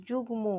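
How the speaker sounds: যুগ্ম with a clearly sounded m; ম pronounced. Shown as a demonstration. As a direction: say যুগ্ম as "jug-mo", keeping the m. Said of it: "তখন ম কিন্তু বলছি". (যুগ্ম, ম উহ্য না রেখে)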